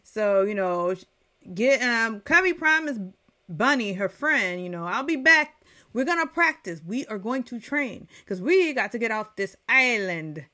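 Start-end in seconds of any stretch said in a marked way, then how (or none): 4.9-10.5 eager promise. Pretend. Covey promising her friend Bunny.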